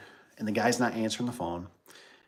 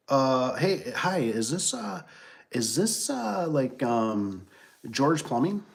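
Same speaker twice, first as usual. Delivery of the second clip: higher, halting, unsure questions; hesitant caller; 4 semitones higher, much slower than usual. Retold or imitated. Customer calling a plumber, hesitant and puzzled. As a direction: imitate a thrown-off customer feeling their way.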